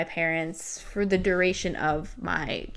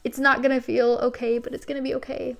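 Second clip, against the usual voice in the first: tender reassurance; 5 semitones higher, faster than usual. Pretend. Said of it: "take her face into my hands and be like".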